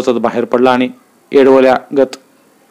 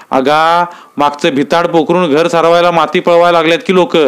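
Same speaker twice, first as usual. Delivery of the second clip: higher, needling rustic voices; village argument; 5 semitones higher than usual. Acted. Uddhav Nana and Naik bicker about the wall, raised voices. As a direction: throw the question back at him.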